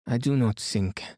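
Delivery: French-accented detective, lightly voiced; a mildly challenging French-accented opening; Poirot. Poirot pressing the watched suspect, lightly accented.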